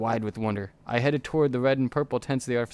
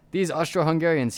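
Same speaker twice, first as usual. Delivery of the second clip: raging peasant; 5 semitones higher than usual. Acted. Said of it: "he raged in peasant accent".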